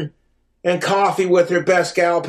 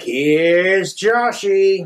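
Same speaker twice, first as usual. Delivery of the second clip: very slow, stretched-out introduction; mock announcement; much slower than usual. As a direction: draw the name out like a showy entrance. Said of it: "And I'm like".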